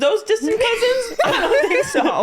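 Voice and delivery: high, slow, laughing disdain; snooty mock disdain. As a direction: sniff at them like a snob. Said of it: "She's like".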